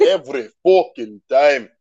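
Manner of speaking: "Every" said with a rolled R. Shown as a demonstration. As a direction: demonstrate "Every fucking time", rolling the R. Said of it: "If you don't roll the R".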